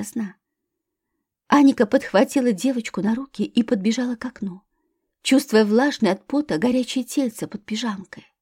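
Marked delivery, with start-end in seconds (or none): none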